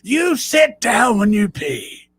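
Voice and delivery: slow, high, drawn-out taunt; mocking insult. Friend taunting a guy who won't eat a hot pepper, slow high jeer. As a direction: draw out the insult slowly, way up high. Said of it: "And he finally said".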